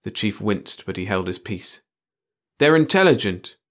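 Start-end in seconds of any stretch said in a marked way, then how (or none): 2.6-3.6 high, loud portentous pronouncement; profound. A narrator's reading. Kenzie revealing his finding to the chief, profoundly. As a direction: announce it as a weighty revelation. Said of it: "Kenzie said profoundly".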